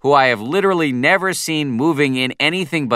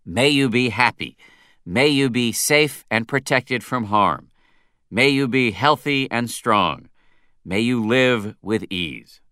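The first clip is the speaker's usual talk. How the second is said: slow, sugary drawn-out word endings; cloying drawl. Retold or imitated. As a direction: stretch every last syllable sweetly. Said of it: "draws out the last syllable of every word in an almost Valley Girl-esque drawl".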